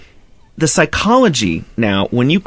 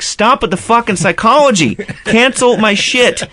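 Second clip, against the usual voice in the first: 1 mock angry rant; 8 semitones higher than usual. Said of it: "I'm like".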